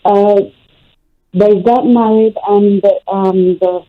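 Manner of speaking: distant speakerphone voice; phone held away from the mouth. Real, not acted. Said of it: "You're on speaker".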